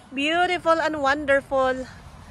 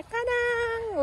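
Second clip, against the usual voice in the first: ta-da reveal; 10 semitones higher, 6 dB quieter than usual. Pretend. Revealing white pumpkins.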